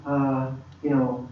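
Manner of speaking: slow, faltering, trailing-off request; hesitant prayer. Retold or imitated. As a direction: hem and haw, dropping away. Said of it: "moved from going".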